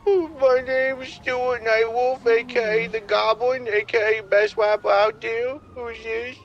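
slow, put-on goofy rapper boast. Prank caller boasting to a stranger in a goofy voice. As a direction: brag like a cartoon wannabe rapper.

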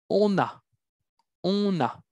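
On a linked with an n sound, on-na; liaison demo. Shown as a demonstration. Teacher showing the class the liaison in On a. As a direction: join On and a through the liaison, on-na. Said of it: "Vamos a hacer una liaison".

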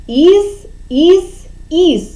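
three clear modelled syllables із. Shown as a demonstration. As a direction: say із, із, із crisply for kids to echo. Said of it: "Повторюйте за мною". (чітко: «із, із, із»)

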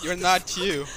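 lightly voiced commercial slogan; Snickers ad line. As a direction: quote the ad like a voiceover.

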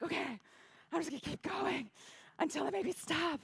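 high-pitched, weepy retelling; imitating someone bawling but carrying on; mock tearful resolve. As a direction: push on through pretend tears. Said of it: "I'm bawling".

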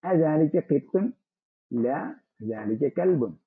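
very slow, word by word; slow dictation. Shown as a demonstration. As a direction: read it out slowly for dictation. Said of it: "teacher reads dialogue slowly". (പതുക്കെ വാക്കുകൾ ഓരോന്നായി)

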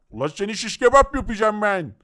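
hammed-up angry enemy threat; threatening villain voice. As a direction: growl a mock threat. (öfkeli düşman sesi, abartılı tehdit)

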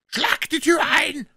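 high, drawn-out yell; shouted command. A narrator's reading. Blind beggar to his gang, shouted command. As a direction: bellow it as an urgent order. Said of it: "denn er schrie".

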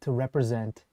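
calm them down gently, like a therapist. Pretend. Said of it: "I don't want your therapist voice".

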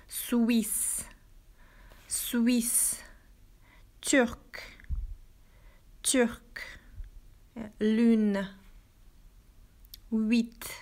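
"Suisse" and "turc" slow, one at a time; example words. Shown as a demonstration. Teacher reads example words to the class slowly. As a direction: read each word alone with pauses. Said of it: "reads example words aloud".

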